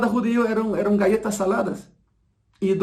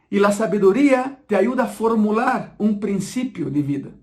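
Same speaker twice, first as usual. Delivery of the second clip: repetición algo más pausada, recalcada; repítelo despacio para que lo asimilen; bien despacio. Shown as a demonstration. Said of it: "te voy a repetir, bien despacio". (repetición pausada y didáctica)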